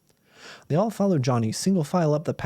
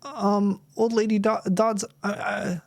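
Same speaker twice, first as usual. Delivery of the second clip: put-on higher, nervous little boy voice; a frightened kid stammering; boy at the witch's table, voiced higher and nervous; nervous boy Bill; 6 semitones higher than usual. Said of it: "started Bill Davis".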